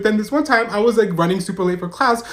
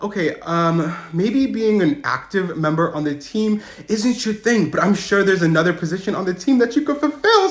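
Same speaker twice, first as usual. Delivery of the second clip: confused coach. Retold or imitated. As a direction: let him down slowly, puzzled. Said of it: "he's super confused".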